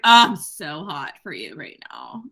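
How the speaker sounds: mock lustful. Mocking her lustful line.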